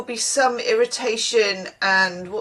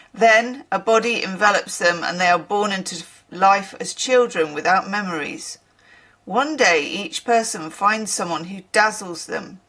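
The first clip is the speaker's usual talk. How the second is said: deliberate, evenly phrased narration; story reading. Acted. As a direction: read the myth aloud, word by word. Reads a passage aloud.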